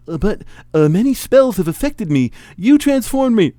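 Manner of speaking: high, loud, halting objection; protesting hero. Acted. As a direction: protest with rising pitch and force.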